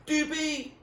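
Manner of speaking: loud, high call from a distance; yelled. A narrator's reading. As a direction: call out across the water. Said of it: "a voice yelled at them".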